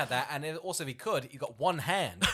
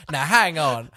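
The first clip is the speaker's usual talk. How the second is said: incredulous protest; 7 dB louder than usual. Acted. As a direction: blurt it out, baffled and accusing. Acting out disbelieving confrontation with fisherman.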